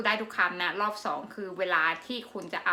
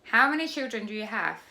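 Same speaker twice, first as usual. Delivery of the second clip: quick, run-together English question; fast. Shown as a demonstration. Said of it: "บุ๋มจะพูดทุกประโยคเลยแบบเร็วๆ". (พูดเร็วๆ รวดเดียว)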